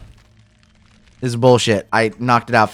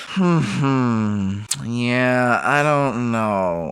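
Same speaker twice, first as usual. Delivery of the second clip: even, lightly told voice-over; walk the viewer through it like a recap; recap narration. Acted. Creator narrating his progress to viewers, calm voice-over.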